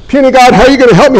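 fast, pleading mock complaint; mocking doubter. Preacher voicing the flesh's doubts, fast mock plea. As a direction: rattle it off like a worried doubter. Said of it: "Now that's what the flesh says".

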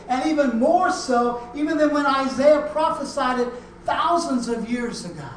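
high, loud pulpit proclamation; impassioned preaching. Real, not acted. Preacher assuring congregation God will be close, impassioned preaching. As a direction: preach it out with full force.

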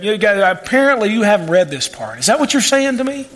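dry teasing jab, rising at the end; light sarcasm. Retold or imitated. Preacher voicing Jesus needling the Pharisees, mildly sarcastic. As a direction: needle them gently. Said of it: "he's laying it to them just a little bit".

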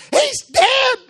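loud, high mock wail; mother's panicked cry. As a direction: cry it out like a frantic mom. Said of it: "She's drugged me over and going".

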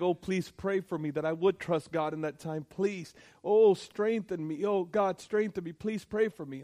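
condemned man begging his brother for prayer. Retold or imitated. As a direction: plead for strength, voice lifted. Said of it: "And he would beg".

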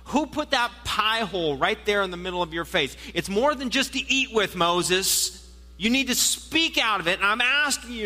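urgent urging. Acted. God voiced urging Moses.

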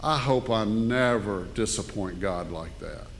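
low, hushed and choked up; real emotion, voice dropping very soft; holding back tears. Real, not acted. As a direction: fight tears while quoting a grandchild. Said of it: "try to say this without crying".

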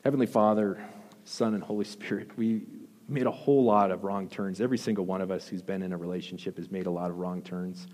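earnest prayer voice; closing prayer. Acted. Pastor leads the church in prayer, earnest. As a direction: pray sincerely over the congregation.

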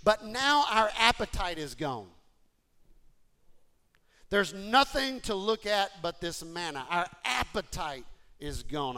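loud moaning complaint; mock whining.

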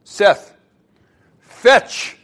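sharp, high shouts at the dog; shouted commands. Acted. Spilkes orders his dog to fetch, shouting. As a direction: bark the order at the pet. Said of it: "and commands".

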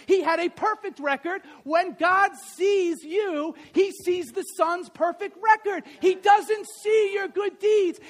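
loud, rising sermon build, shouting the climax; preaching at full force. Acted. Pastor preaching hard to the congregation, loud and building. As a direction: drive it home like a revival preacher.

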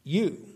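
"you" lifted and stressed. Shown as a demonstration. Pastor explaining emphasis to congregation, stressed. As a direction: hit "you". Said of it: "with the emphasis on".

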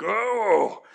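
long drawn-out "oh" of angst; acted pained "oh"; angsty groan. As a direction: groan it out from the heart. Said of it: "the angst within my own heart".

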